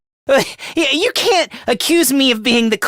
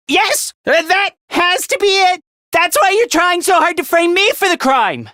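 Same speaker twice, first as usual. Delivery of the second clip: heated accusation; 5 semitones higher than usual. Acted. Acted counter-accusation of framing.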